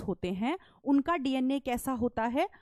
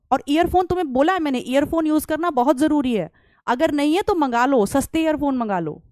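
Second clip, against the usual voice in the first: louder and quicker, fed-up scolding; louder, exasperated; 6 dB louder than usual. Real, not acted. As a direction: push the voice up, annoyed the class can't hear. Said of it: "low voice क्यों आएगी बेटा".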